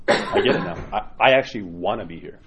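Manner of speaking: mild laugh of relief while quoting; relieved laughing. Retold or imitated. Repentant parishioner, tears to relief.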